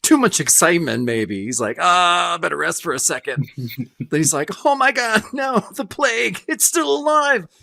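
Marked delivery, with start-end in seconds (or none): 0.0-3.5 mock feeling faint. Voicing the guy feeling ill. 4.6-7.5 hammed-up dread at the plague; mock horror. Voicing the guy's horror.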